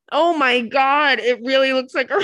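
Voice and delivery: losing it with laughter mid-sentence; cracking up. Real, not acted. Host reacting to absurd possum pictures, cracking up. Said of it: "I don't think I've laughed that hard".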